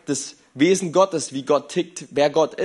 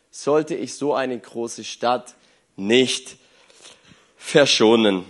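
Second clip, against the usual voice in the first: scripture reading; 3 semitones lower than usual. Acted. Reads the Bible passage aloud.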